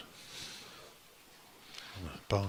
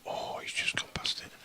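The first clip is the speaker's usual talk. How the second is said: snooker commentary whisper. Acted. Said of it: "add a bit of drama to it there".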